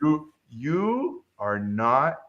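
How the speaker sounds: very slow, weighty pronouncement; Yoda. Retold or imitated. Old reviewer judging a student, lightly imitated slow sage. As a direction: imitate a sage, spacing out each word. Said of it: "he talked like Yoda".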